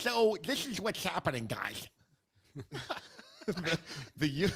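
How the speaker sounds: speech slurred by missing retainer; talking without retainer. Real, not acted. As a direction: talk like your retainer is out. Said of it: "He's got his retainer out".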